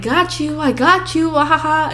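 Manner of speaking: high sing-song mock taunt; gloating sister. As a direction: tease like a gleeful little sister. Sister gloats over her prank.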